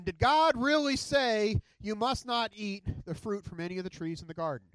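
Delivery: a hint of the serpent, slowed at first; lightly voiced sly snake. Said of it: "he asked the woman".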